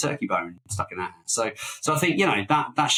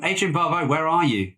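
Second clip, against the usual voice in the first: higher-pitched playful calling out; mock appeal; 6 semitones higher than usual. Host jokingly appeals to the absent actress, mock exasperation. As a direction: call to a missing star in mock exasperation.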